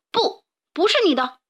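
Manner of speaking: bear. A narrator's reading. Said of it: "熊说".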